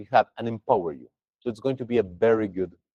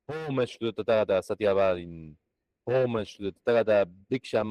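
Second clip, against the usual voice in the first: prayer recitation; 2 semitones lower than usual. Acted. Teacher opening the class with mantra verses, chanting. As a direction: recite each name like a liturgy.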